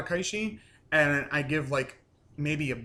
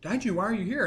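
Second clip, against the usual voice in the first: higher-pitched imitation of surprise; mildly acted, puzzled surprise; retold surprise; 5 semitones higher than usual. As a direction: ask it in mock surprise. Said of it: "they're all surprised".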